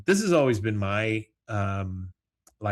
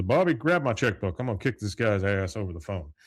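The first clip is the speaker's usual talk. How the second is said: Hank fuming; 3 dB louder than usual. Retold or imitated. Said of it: "He says".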